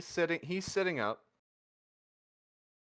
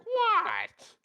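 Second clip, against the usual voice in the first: loud protest; 7 dB louder than usual. Acted. Protesting after being told off.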